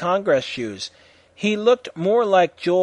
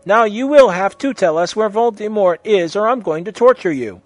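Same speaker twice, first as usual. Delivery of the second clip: higher, louder, menacing demand; evil threat; 6 semitones higher, 7 dB louder than usual. A narrator's reading. Threatening torture to a captive teacher, evil and commanding. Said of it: "laughing with the depths of evil".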